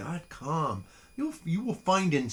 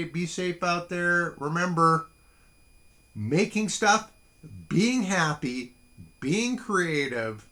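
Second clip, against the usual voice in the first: upbeat sign-off; 4 semitones higher, 6 dB louder, slower than usual. Real, not acted.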